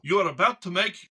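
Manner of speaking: mock-solemn imitation of an accented caller; Edgard Capdeville. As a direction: imitate the CEO's accent, not very well, with grave emphasis. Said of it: "I can't do his accent very well".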